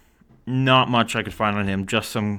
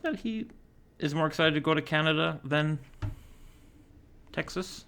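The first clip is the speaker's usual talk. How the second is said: baffled disbelief; 7 semitones higher, 6 dB quieter than usual. Real, not acted. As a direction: voice climbing high in mock bewilderment. Baffled player prefers Canada.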